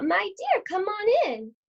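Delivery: a wolf pretending to be sweet old Gran; wolf faking granny. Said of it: "He called out".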